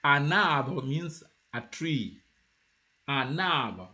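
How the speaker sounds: careful "an arbre" with N carried onto the A; joined N. Shown as a demonstration. Teacher asking learners to listen carefully, N joined. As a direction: say "an arbre" as one linked unit. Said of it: "if you listen to me carefully".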